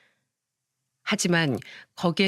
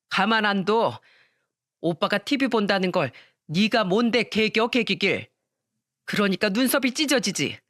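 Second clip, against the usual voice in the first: cold scolding mother; 2 semitones higher than usual. Acted. Mother coldly blaming her injured daughter, mild harshness. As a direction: hold the blame on her, coldly.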